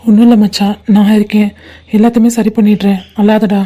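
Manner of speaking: gently calm a distressed friend; tender reassurance. Acted. Friend telling his buddy not to cry, gently reassuring.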